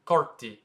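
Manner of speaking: a rapper's name as KART-ee, two short syllables; French pronunciation. Shown as a demonstration. Teacher repeats after a rapper comparison, French pronunciation. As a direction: end the name on tee. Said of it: "Like Cardi B".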